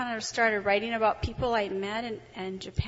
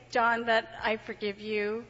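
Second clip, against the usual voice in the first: slow, earnest forgiveness; measured, sincere "I forgive you". Real, not acted. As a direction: speak straight to John, meaning it. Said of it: "I have to say".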